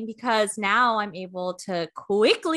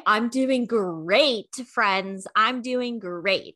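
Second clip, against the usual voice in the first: slow, drawn-out mock reassurance; slowly imitating your own past assurance; exaggerated self-quote; much slower than usual. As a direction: stretch out GREAT, hamming up how fine you are. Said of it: "remember when I was like".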